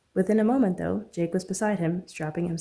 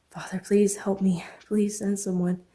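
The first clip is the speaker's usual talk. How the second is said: whispered prayer; 2 semitones higher, slower than usual. Acted. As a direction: pray under her breath, slowly. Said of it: "She continued to pray".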